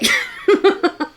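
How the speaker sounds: high, giggly cackle; amused laugh. Real, not acted. Commentator scoffs at editing videos, amused high laugh. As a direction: burst into high chuckles.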